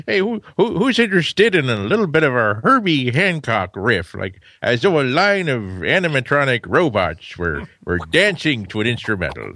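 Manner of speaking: put-on old-timer's rambling Maine accent, pitch swooping; hammed-up New England fisherman accent. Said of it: "your little accent sort of, originally it was more like a Maine fisherman".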